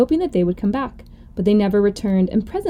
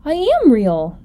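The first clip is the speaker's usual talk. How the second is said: higher, earnest little plea; mildly upset, raised-pitch protest; insistent protest; 4 semitones higher, 3 dB louder, slower than usual. Acted. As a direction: insist on it against the doubters. Little rabbit protests, nearly crying.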